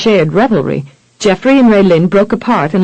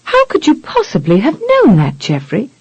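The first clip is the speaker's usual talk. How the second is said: astonished; 5 semitones higher than usual. Acted. Astonished wife, narrated surprise.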